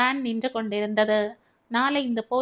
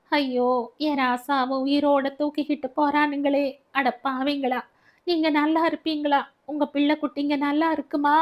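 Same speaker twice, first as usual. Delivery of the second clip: higher, pleading curse at the police; howling lament; 4 semitones higher than usual. Acted. Baby howling curses at the departing police, higher. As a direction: howl curses as the van leaves. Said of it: "ஓவென்று அலறிக்கொண்டு".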